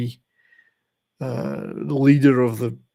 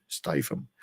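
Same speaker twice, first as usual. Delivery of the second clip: whispered name; 9 semitones lower, 9 dB quieter than usual. Shown as a demonstration. Repeating the name for effect.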